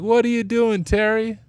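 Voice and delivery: meme video quote. Retold or imitated. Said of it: "Classic fourth of July video".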